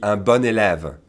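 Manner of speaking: "bon élève" linked as "bonn-élève"; liaison, like the feminine. Shown as a demonstration. Teacher giving good student example, linked like the feminine. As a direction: sound the n of "bon" straight into "élève". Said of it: "pronounce it like the feminine".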